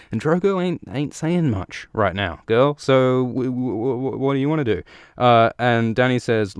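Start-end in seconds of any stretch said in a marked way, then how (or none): 0.1-4.8 mock sass, pitched high; sassy retort. Blood riders talk back to the Khaleesi, mock sassy. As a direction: play a lightly sassy challenge in a higher voice.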